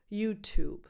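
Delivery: "YouTube" with a light final B. Shown as a demonstration. Teacher finishing the tip, "YouTube" with very light B. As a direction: say "YouTube", barely touching the last B. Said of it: "add a very light B".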